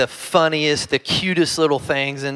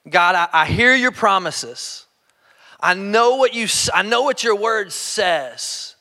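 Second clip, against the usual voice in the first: pleading prayer; 4 semitones higher than usual. Retold or imitated. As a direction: plead with God for the promise. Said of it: "God just whispered".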